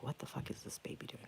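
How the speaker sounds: retold whisper. Retold startled thought at night.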